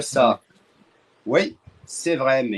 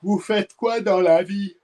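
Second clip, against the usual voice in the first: asked louder; 7 semitones higher than usual. Real, not acted. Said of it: "dis-le plus fort".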